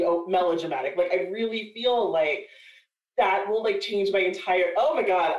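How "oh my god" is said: usual speaking voice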